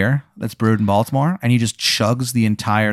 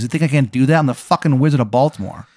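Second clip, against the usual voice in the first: boastful wizard in a bad Maryland accent; Wizard of Baltimore; 3 semitones higher, faster than usual. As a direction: brag in a lightly hammed-up Maryland accent. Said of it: "worst Maryland accent you've ever heard".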